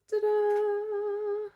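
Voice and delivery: big high showy ta-da. Real, not acted. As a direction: reveal it like a magic trick. Presenting a finished stitch.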